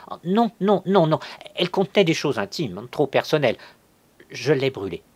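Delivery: high, loud, agitated protest; flustered refusal. A narrator's reading. Cousin hiding a lie about the letter, flustered and loud. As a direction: refuse in alarm, pitched well up.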